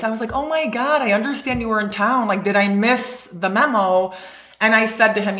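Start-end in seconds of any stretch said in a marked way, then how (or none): 0.3-4.1 mock-sweet fake surprise at the guest; passive aggressive. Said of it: "in my passive aggressive voice".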